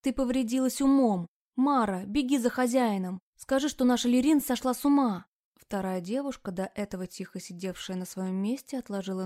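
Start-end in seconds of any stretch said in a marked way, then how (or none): 0.0-5.2 loud, high, frantic yelling; panicked shout. Acted. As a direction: yell for the master in a panic. Frightened girl yells for help.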